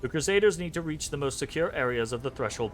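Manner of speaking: lightly robotic, even monotone reading; half-hearted robot, words flat and measured; cheap robot voice. Acted. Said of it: "cheapskate robot voice".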